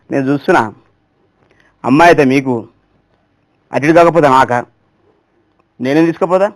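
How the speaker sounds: a hint of a sulky leader grumbling; grumbling politician. Politician complaining about being passed over, grumbling low.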